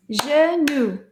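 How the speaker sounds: "Genou" in two firm, even beats; syllable by syllable. Shown as a demonstration. Teacher counting syllables of genou with class, firm beats. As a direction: clap out "Genou" one syllable at a time. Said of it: "Combien de syllabes".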